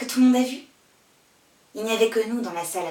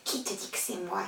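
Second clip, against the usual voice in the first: low denial; 3 semitones lower, 10 dB quieter than usual. Acted. Bernard's denial, quoted low.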